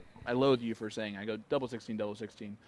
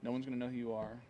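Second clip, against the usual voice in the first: playfully secretive; 8 dB quieter than usual. Pretend. Host plotting a tournament with a young player, softly secretive. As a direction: keep it down, as if others are listening. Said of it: "talking so softly like this is a secret".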